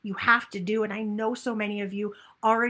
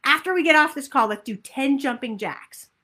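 louder, fast upbeat suggestion; cheerful invitation; 3 semitones higher, 7 dB louder than usual. Shown as a demonstration. Coach showing the group a cheerful invitation to move. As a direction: pitch it like a fun plan. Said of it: "But if you said".

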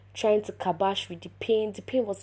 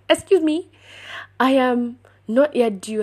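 high, loud mock protest; indignant disbelief; 5 semitones higher, 9 dB louder than usual. Pregnant patient protesting to the doctor, loud indignant disbelief. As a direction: object loudly, much higher, as if affronted.

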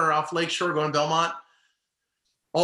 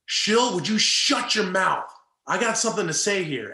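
manager snapping; 4 semitones higher than usual. Retold or imitated. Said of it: "And Tito says".

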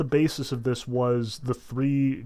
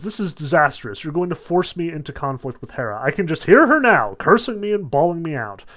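flustered Zeus; 5 dB louder, faster than usual. Retold or imitated. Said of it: "So he says".

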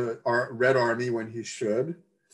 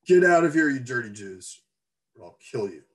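hostile threat; 5 dB louder than usual. Acted. Hostile man threatens with pitchfork.

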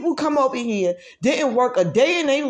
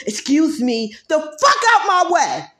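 angry shout; 4 semitones higher, 4 dB louder than usual. Real, not acted. Ranting about saying excuse me.

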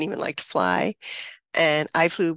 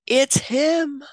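retold scream; 7 semitones higher than usual. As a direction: shout it out in disbelief. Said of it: "I screamed".

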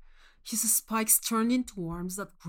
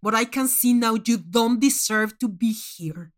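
cold disappointed judge; 8 dB louder than usual. Acted. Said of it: "Manx said".

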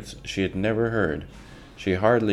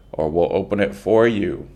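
shout; 6 dB louder than usual. Acted. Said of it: "came a shout".

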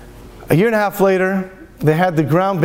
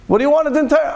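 higher, puzzled and disbelieving; baffled question; 8 semitones higher, faster than usual. Retold or imitated. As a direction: ask it as if you can't believe it. Rabbi baffled by the demand.

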